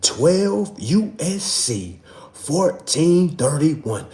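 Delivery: slow, every number spelled out; deliberate slow citation; slow dictation. Shown as a demonstration. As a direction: read it out slowly so they can write it down. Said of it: "One more time".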